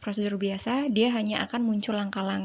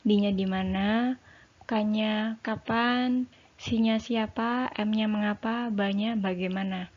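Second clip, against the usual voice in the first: slow mnemonic recital; slower than usual. Shown as a demonstration. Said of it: "diawali dengan adik Simba ya".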